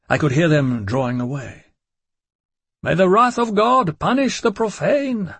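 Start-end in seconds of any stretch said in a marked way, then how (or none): 2.8-5.3 high shrieked curse; shrieking creature. A narrator's reading. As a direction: chant it like a fiend.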